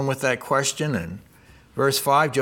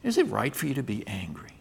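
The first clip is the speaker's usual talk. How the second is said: soft, hushed voice of God, gently asking; a gentle, searching hush; still small voice; 4 semitones lower, 7 dB quieter than usual. Acted. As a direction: ask it softly, like a still small voice. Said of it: "it's almost like a still small voice".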